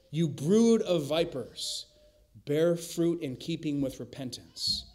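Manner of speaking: John the Baptist rebuke. Retold or imitated. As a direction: spell it out slowly and loudly. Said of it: "what does John the Baptist say".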